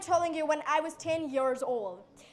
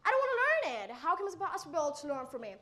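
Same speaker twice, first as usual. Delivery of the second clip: put-on eager child pleading; 4 semitones higher, faster than usual. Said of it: "There was another curiosity that".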